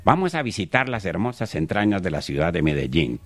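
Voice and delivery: lightly voiced travel-show presenter; Héctor Mora. Comedian parodying Pasaporte al Mundo's opening, light presenter impression. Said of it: "¿se acuerda, don Héctor Mora?".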